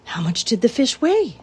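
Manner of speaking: an excited piglet hanging on the story; eager. A narrator's reading. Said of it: "asked Wilbur eagerly".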